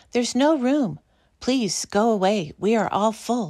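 crying out loudly. People at every home turn away the couple seeking lodging, crying out. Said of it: "they cried".

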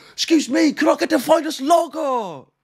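put-on Irish accent, badly done, very high pitch. Imagining ordering at an Irish bar, Irish accent. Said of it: "with that accent".

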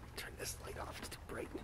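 soft, voiceless whisper.

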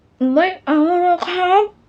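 very high, smothered, muffled mumble. Face pressed to his chest, the narrator refuses to look up, muffled against his chest. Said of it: "ผมพูดเสียงอู้อี้อยู่กับอกกว้างของเขา".

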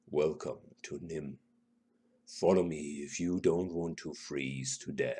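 deep, soft voice, low and unhurried. Reading the halfling's words before he vanishes into the fog, deep, slow voice. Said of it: "says in a deep, slow voice".

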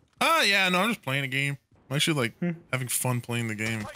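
depressed-sounding voice. Answering a check-in while playing a game, sounding depressed. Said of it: "you sound depressed as hell".

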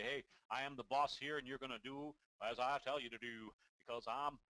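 assured, very confident tone. Demonstrating how a confident person might speak, in a very confident voice. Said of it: "they may have a very confident voice and say".

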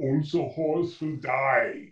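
deep, monstrous monster voice. Retelling what she called out from behind, in a deep monster voice. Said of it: "like a monster voice, like this deep".

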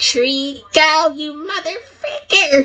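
very high-pitched cartoon character voice. Quoting a line from a Pokemon Talk episode: Toad voice. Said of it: "as Toad said in that one Pokemon Talk episode".

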